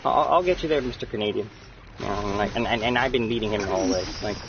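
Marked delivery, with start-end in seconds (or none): 0.0-1.5 cocky, higher mock voice; mocking a teammate. Mimicking his gamer buddy's cocky promise. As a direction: ham up his know-it-all bragging. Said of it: "he goes in this mission with me all like".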